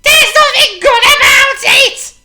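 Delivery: slow, high, loud grumbling snap; grumpy retort. Acted. Mister Grumpy answering the cheery greeting, slow loud grump. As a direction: spit it back at the cheery neighbour. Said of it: "retorted Mister Grumpy".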